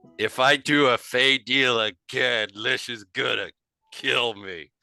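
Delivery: put-on drunk-sounding, heavily slurred speech. In a tabletop game, a character who has been drinking at the contest speaks: drunk, slurred speech. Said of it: "absolutely slurred".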